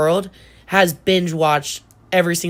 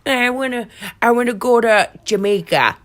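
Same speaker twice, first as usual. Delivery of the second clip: higher, put-on mocking voice; mocking naive dreamers; 5 semitones higher than usual. Mocking people's getaway plans, put-on higher voice. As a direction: imitate people with unrealistic plans, pitched up. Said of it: "people are like".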